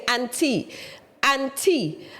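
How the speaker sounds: Kofi's N T run together as "auntie"; sounds like auntie. Retold or imitated. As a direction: say "auntie" softly, as the misheard surname. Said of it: "it sounded like he was saying".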